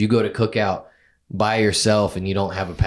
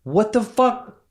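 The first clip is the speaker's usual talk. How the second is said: can't believe what he's hearing; incredulous; 12 semitones higher than usual. Real, not acted. Friend shocked at one side.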